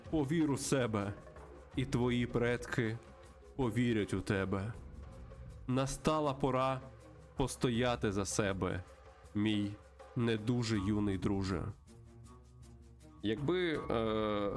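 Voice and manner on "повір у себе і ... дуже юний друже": slow, measured mystical mentor; solemn spirit guide. Acted. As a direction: intone slowly, with long pauses between phrases. Voices spirit guide in game. (повільний урочистий голос наставника)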